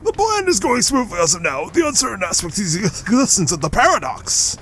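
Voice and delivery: measured villain aide voice; character voice. Acted. Voicing another game character.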